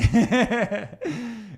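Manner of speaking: high, loud burst of laughter. Real, not acted. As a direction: laugh out loud at your own line. Laughs at own retort to clients.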